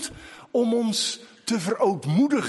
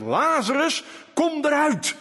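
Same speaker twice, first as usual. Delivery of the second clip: loud call; 7 semitones higher than usual. Retold or imitated. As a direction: call Lazarus out of the grave. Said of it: "riep Jezus nu met luide stem, met grote stem".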